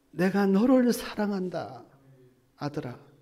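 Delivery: tender God's voice. Acted. God speaking tenderly to his weeping son. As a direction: say it like a loving father. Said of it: "나에게 소망을 주시고".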